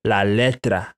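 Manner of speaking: La letra: Spanish la, rolled-tap r in letra. Shown as a demonstration. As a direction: model La letra for students to repeat. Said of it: "I'm going to say la letra".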